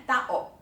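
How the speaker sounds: "tao" as two beats, ta-o; break between vowels. Shown as a demonstration. Teacher showing learners the break, "tao" in two syllables. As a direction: catch the throat between a and o in "tao". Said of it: "那个啊跟o中间要顿一下".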